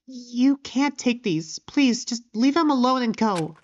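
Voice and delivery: lightly lisped, pleading character voice. Acted. Shy pony begging them to leave the tools, lisping. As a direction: plead with a slight lisp, starting slowly. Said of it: "gonna have to take a lisp".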